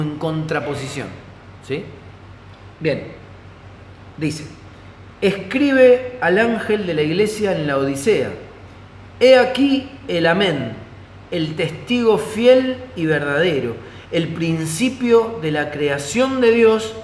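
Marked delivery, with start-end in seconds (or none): 5.2-16.9 slow, measured Bible reading aloud; deliberate, proclaimed reading; scripture reading. Acted. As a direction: read the verse out solemnly, stretching the key phrases.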